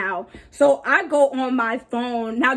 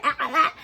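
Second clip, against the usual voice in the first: mock yelling; 3 semitones higher than usual. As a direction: imitate her yelling in wordless noises. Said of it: "She yelling".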